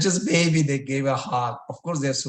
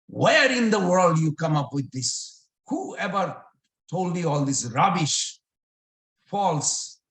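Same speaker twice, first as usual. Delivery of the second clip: indignant scolding; 4 semitones higher, 4 dB louder than usual. Acted. Mother scolds over the rumour.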